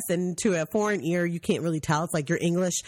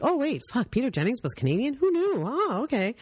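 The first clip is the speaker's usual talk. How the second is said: mock surprise; 6 semitones higher than usual. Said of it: "they're like".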